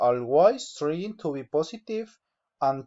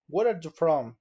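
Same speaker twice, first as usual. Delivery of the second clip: "Where are you from?" falling at the end; falling intonation. Shown as a demonstration. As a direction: let "from?" drop in pitch. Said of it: "falling intonation".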